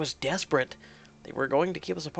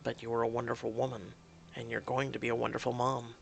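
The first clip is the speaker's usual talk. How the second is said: low, soft, gentle voice; reassuring; 5 semitones lower, 6 dB quieter, faster than usual. Acted. Man reassures frightened partner about motherhood, gentle. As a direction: comfort her quietly.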